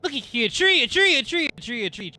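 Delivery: excited high squeal. Real, not acted. Excited pointing at a tree.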